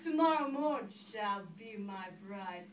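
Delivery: slow, loud proclamation; princely vow, loud and unhurried; crying out. Acted. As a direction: declare it grandly, drawn out. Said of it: "He cried".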